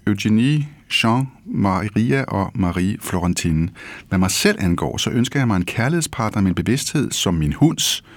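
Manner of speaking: savouring a literary passage, slowing on the images; expressive reading of a favourite passage; reading aloud. Acted. Host reads second excerpt.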